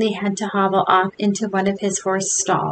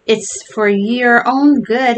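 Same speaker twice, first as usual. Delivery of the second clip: stern father; 3 semitones higher, 5 dB louder, slower than usual. A narrator's reading. Father shaking son.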